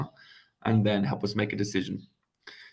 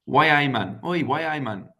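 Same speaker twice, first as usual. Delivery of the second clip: Geordie greeting, called out higher and louder; Geordie accent; 5 semitones higher, 5 dB louder than usual. Retold or imitated. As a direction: throw out a loud, high Newcastle hello. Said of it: "someone who's from Newcastle, they might say".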